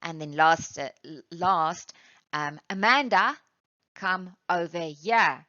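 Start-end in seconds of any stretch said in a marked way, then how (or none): 2.7-5.4 calling out. Shown as a demonstration. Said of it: "screaming or yelling at someone".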